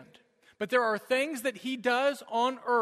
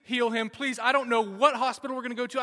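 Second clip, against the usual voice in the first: desperate prayer aloud; 3 semitones higher, 6 dB louder than usual. Retold or imitated. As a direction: beg God for your son's life. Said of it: "I'm just praying out loud".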